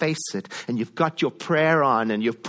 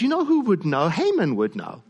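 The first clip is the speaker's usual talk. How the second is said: king's bright idea; 5 semitones higher than usual. Retold or imitated. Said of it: "And he says".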